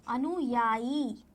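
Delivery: अनुयायी said slowly with a clear उ after न; slow correct pronunciation. Shown as a demonstration. Teacher modelling अनुयायी slowly for the class. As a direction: draw out अनु-या-यी. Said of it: "ये आपका सही होगा".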